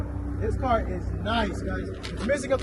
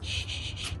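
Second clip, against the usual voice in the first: shushing; 12 dB quieter than usual. Real, not acted. Hushing while engine is tried.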